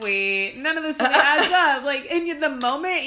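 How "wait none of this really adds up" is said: sudden realization. Retold or imitated. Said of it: "and you're like".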